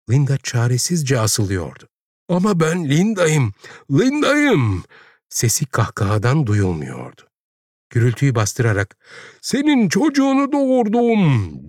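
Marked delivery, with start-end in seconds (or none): 2.3-4.8 high cry climbing higher; desperate insistence. A narrator's reading. Linda shouts over the laughter. 9.4-11.7 very high, sustained wail; crying out. A narrator's reading. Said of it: "diye haykırdı".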